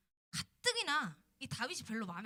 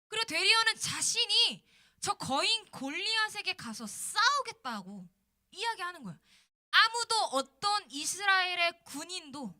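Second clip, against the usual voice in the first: raised, louder preacher's voice; impassioned preaching; 5 semitones higher, 6 dB louder than usual. Real, not acted. Preacher to students about Israel hiding in fear, impassioned preaching. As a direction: build to a high, forceful pulpit delivery.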